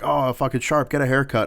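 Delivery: retold barracks telling-off; imitated superior's order. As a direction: call out the order like an irritated superior.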